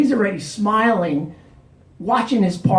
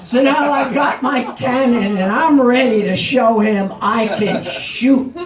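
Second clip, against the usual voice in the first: laughing; 4 semitones higher, 4 dB louder than usual. Real, not acted. Still laughing at the story.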